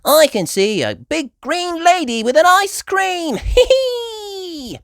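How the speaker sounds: high, loud giggle; child laughing at joke; giggling. Acted. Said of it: "she cried".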